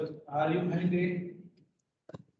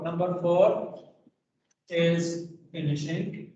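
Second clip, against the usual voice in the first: slow, deliberate answer; slower than usual. Shown as a demonstration. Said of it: "teacher giving the correct answer".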